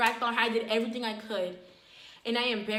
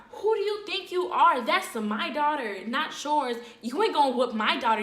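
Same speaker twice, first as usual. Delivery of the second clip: mom popping off; 3 semitones higher, 4 dB louder than usual. Retold or imitated.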